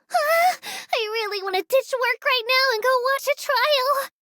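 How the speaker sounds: sighed, yearning outburst; wistful longing. Acted. Tour guide wishing she could skip work, wistful longing. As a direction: let a longing wish slip out.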